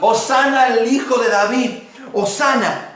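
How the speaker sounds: shouting disciples. Retold or imitated. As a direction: cry it out as the disciples proclaim. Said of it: "venían gritando".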